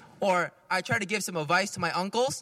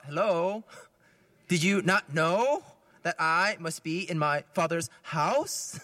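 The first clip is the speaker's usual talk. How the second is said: slow, drawn-out sarcastic retort; slower than usual. Shown as a demonstration. Son answering his mother with slow sarcasm. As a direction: needle them slowly with sarcasm. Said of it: "other version could be".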